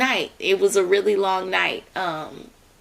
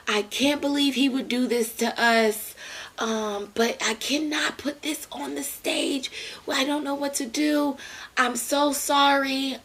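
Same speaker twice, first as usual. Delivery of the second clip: tearful director; 5 semitones higher than usual. Retold or imitated. Understated imitated crying, whispered in places. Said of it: "I hear this".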